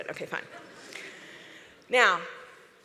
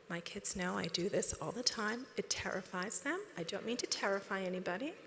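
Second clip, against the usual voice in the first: whispered demo; 4 semitones lower, 10 dB quieter than usual. Shown as a demonstration.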